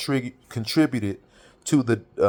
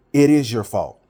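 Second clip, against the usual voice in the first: louder, firm accusation; retold blunt accusation; 5 dB louder than usual. Telling his friend his daughter's date is his fault, firmly. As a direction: lay the blame on him squarely.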